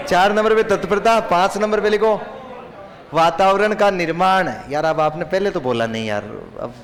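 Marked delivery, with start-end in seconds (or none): 0.1-4.5 louder, raised voice calling out dictation. Real, not acted. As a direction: call out the points over the class. Teacher pushes dictation loudly. (ज़ोर से लिखवाना)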